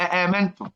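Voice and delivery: "أآمنتم" with a clear second hamza before long aa; both hamzas sounded. Shown as a demonstration. Teacher confirming the reading, both hamzas fully pronounced. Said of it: "بالتحقيق وهمزتين".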